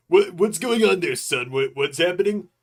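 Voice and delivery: a pushy caller phoning in; impression of a caller. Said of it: "someone asked if I would use A I voices".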